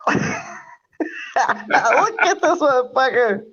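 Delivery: high, gleeful pointing-out call; amused exclaim. Real, not acted. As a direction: crow it out, delighted. Pointing out a drunk friend.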